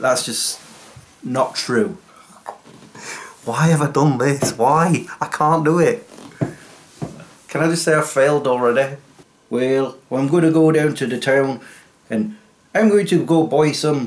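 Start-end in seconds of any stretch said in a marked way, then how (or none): 9.5-14.1 rural West Country farmer accent. Trying an accent you say you can't do, slip into a Farmer Gerald West Country accent. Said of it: "that's the West Country accent".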